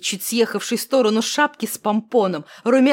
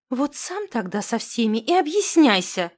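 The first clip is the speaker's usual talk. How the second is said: offended exclaim; 4 semitones higher than usual. Acted. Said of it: "обиженно воскликнула Инна".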